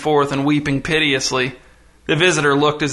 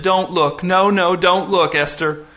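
mild, higher-pitched distressed plea; pleading; 4 semitones higher, slower than usual. Acted. Humiliated dad to his daughter, pleading. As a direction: beg her to turn away, lightly acted. Ashamed father begs daughter not to look.

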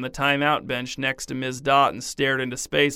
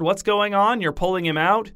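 high, raised flustered questions; 6 semitones higher than usual. Acted. Teacher flustered at parents pulling son, raised pitch. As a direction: caught off guard, voice jumping up.

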